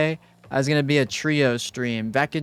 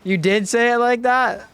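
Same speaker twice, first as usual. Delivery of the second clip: surprised; 10 semitones higher, 5 dB louder than usual. Real, not acted. Surprised at chat.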